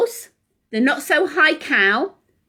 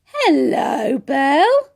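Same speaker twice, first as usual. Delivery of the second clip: mock excited greeting; 2 semitones higher, 4 dB louder, slower than usual. Greeting the toy on chair.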